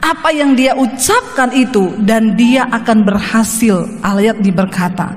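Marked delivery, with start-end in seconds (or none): 0.0-3.8 slow, solemn Bible reading; scripture reading. Acted. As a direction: read each phrase slowly and weightily. Reads a scripture verse. (pembacaan ayat yang lambat dan khidmat)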